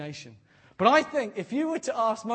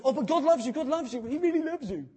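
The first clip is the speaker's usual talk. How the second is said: mock gushing reassurance; 6 semitones higher, 4 dB louder than usual. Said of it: "We so rush onto".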